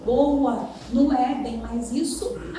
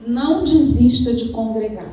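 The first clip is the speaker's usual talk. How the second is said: loud, stressed exhortation to the church; preacher pressing the flock not to give up, forceful; emphatic preaching; 4 dB louder than usual. Real, not acted. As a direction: hammer the point home from the pulpit. Preacher urging the congregation.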